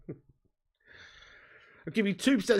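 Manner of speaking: slow, weighty investor offer; mock Dragon's Den. Shown as a demonstration. Streamer offering a viewer a stake, as a slow mock investor. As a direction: hold each word like a TV investor closing a deal. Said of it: "It's like Dragon's Den".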